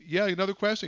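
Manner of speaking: lightly voiced caller. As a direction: imitate the caller asking innocently. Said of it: "He goes".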